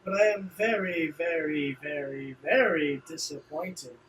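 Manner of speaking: lightly voiced rival, theatrically let down; disappointed rival. Rival chiding a former ally, mildly theatrical disappointment. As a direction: draw out the mock disappointment a little.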